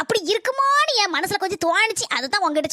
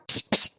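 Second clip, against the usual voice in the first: calling a kitten sound. Acted. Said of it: "புஸ் புஸ்னு கூப்பிட்டேன்".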